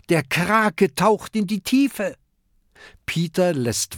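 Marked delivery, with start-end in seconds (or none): 0.1-2.2 high, excited shout; calling out. Acted. Kokosnuss calls to the crew, high and excited. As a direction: spot them and bark orders. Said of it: "ruft Kokosnuss".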